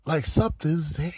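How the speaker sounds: hushed whisper aside. Real, not acted. Commentator hinting to viewers, whispered. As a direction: drop to a whisper, conspiratorial.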